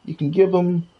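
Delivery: lightly voiced Scrooge. Scrooge tells the player about the village, lightly voiced. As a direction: lightly play the grumbling old money duck.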